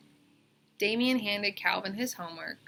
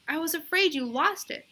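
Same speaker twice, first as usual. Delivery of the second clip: put-on girl's insistent voice; 9 semitones higher, 4 dB louder than usual. A narrator's reading. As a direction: draw out the yes like a stubborn kid. Bebe relieved.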